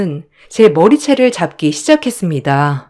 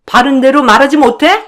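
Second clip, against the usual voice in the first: higher and harsher demand; angry sister-in-law; 7 semitones higher, 4 dB louder than usual. Acted. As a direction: force the confession out of her. 형님 demands again, now fighting. (더 격해진 형님의 다그침)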